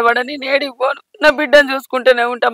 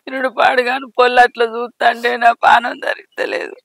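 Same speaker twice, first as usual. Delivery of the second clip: tearful lament; 3 dB quieter than usual. Acted. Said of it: "అంటే ఎందుకు ఏడవదు".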